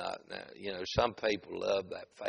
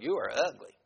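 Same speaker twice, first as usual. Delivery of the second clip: higher, squawky-tuned parrot imitation; mock parrot insult; 4 semitones higher than usual. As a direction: say it like a talking parrot. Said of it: "Like that".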